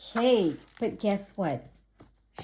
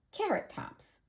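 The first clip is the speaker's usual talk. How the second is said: whisper; 13 semitones higher, 5 dB quieter than usual. Acted. Bunny's quick line in story.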